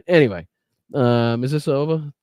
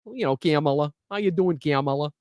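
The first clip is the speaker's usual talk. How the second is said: lightly imitated Minnesotan greeting, Kamala as KAM-uh-luh; Minnesota accent; 3 dB quieter than usual. Shown as a demonstration. Host playing a Minnesotan greeting her, light Minnesota accent. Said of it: "if you're up in Minnesota".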